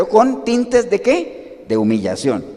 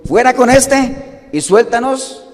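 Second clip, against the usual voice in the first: mildly raised, slow crowd demand; crowd's cry; 5 semitones higher, 5 dB louder, slower than usual. Acted. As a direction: call it out slowly, like a crowd demanding. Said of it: "dio voces a una diciendo".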